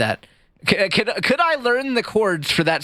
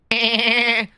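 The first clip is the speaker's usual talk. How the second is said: lightly attempted cartoon dad voice; half-hearted cartoon impression with a drawn-out ending; Peter Griffin; 2 semitones lower, much slower than usual. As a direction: loose imitation of a cartoon dad. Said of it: "the Peter Griffin".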